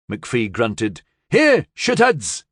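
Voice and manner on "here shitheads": loud, high angry yell; furious shout across the swamp. A narrator's reading. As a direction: bellow it at the hidden people. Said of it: "he shouted".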